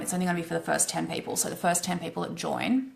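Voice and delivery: fast, upbeat infomercial pitch. Real, not acted. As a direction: sell it like a TV infomercial. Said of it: "oh my God, I sound like an infomercial".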